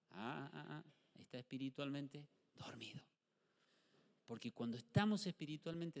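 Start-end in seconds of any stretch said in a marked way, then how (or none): 0.1-3.0 unvoiced aside whisper; whispering to the congregation about a sleepy brother. Real, not acted. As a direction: whisper it like a secret. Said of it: "whispered aside about sleepy brother".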